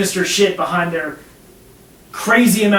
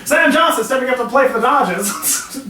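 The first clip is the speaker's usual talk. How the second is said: announcer; 5 semitones higher than usual. Acted. Mock sports announcer bit.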